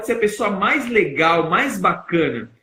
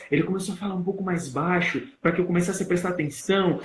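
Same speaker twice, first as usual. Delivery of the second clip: quieter, as a demonstration; lowered voice; 5 dB quieter than usual. Shown as a demonstration. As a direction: drop the volume to draw listeners in. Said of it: "ele baixou o tom de voz". (voz mais baixa para chamar a atenção)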